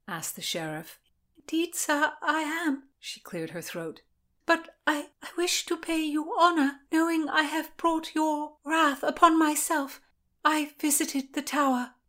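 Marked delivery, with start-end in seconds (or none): 1.4-2.9 put-on higher, timid girl's voice; a scared girl answering her captors; frightened young woman. A narrator's reading. Constance answers the sheriff after her fall, higher and timid. 4.4-11.9 put-on higher, pleading girl; frightened young woman. A narrator's reading. Constance confesses to the sheriff and Lord William, higher and pleading.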